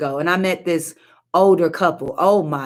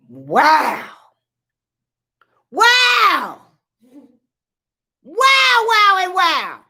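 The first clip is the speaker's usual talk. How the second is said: overcome wows; 12 semitones higher, much slower than usual. Real, not acted. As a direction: let it break out of you. Overwhelmed by scripture point.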